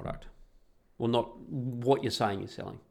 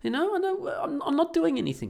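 retold exasperated protest. Retold argument with wife.

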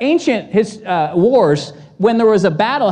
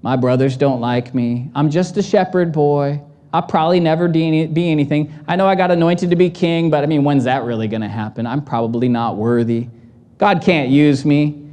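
mopey self-doubting voice; 5 semitones lower than usual. Retold or imitated. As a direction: sigh it out like a hopeless boy. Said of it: "That wasn't David's voice".

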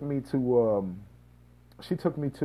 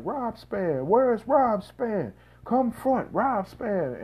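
calling out; 9 semitones higher, much slower than usual. Retold or imitated. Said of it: "they was screaming my name".

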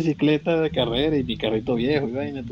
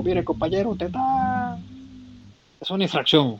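police officer; 8 semitones higher than usual. Retold or imitated. Police officer stops him.

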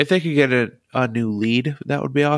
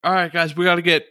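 voice actor impression; 4 semitones higher, faster than usual. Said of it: "He'd be like".

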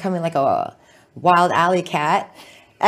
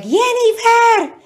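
mom calling Jennifer; 6 dB louder, slower than usual. Retold or imitated. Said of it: "And she's like".

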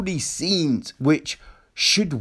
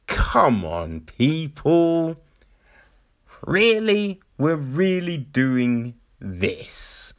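exasperated; slower than usual. Acted. Exasperated appeal to the filmmakers.

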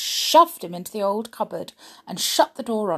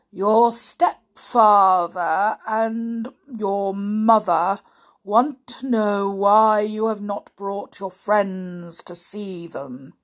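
slow, even, droning servant voice; monotonous butler; 3 dB louder, slower than usual. Acted. Butler Block relays the parents' message in a slow monotone. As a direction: drone it out with no life. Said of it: "spoke in a curiously monotonous voice".

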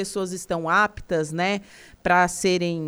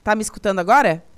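quick, louder check on the line; calling out louder; 6 dB louder, much faster than usual. Real, not acted. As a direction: raise the voice to be heard. Checking a bad phone line.

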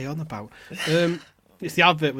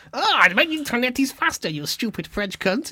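high, mocking meerkat voice, then slowing; high taunting cartoon voice; mocking Alexander; 8 semitones higher, 3 dB louder than usual. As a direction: sneer it out as the smug meerkat. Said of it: "Alexander, the cunt, going".

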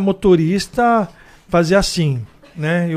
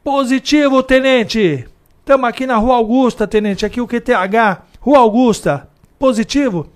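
higher, louder radio report voice; old cop on the radio; 7 semitones higher, 5 dB louder than usual. Retold or imitated. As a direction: report crisply to the lieutenant. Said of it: "o antigão fala assim".

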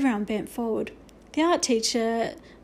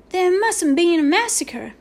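high, loud, slow cry of alarm; horrified squeak; 7 semitones higher, 7 dB louder, slower than usual. A narrator's reading. Boone hiding his eyes from a massacre, squeaking. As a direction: wail it high in mock horror. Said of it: "he squeaked, hiding his eyes".

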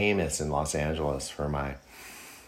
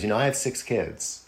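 mock conviction imitating a singer; 6 semitones higher than usual. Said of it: "he looks at me and he goes".

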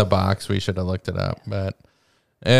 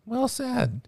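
mock praise; 13 semitones higher, 10 dB quieter than usual.

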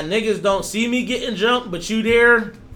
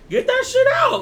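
shout. Real, not acted. Urging friend to own tweets.

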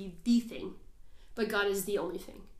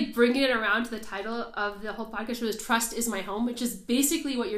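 beaming with joy; 5 dB louder than usual. Real, not acted. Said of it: "beaming right now".

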